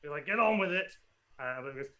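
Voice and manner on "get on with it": higher, loud irritated command; impatient order. Acted. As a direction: snap at a dithering servant. Hungover lord impatient with his servant.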